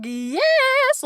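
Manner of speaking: sudden very high cheer; high, thrilled yes; excited yes. Retold or imitated. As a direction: burst out with joy like a freed parent. Parents after doing the work.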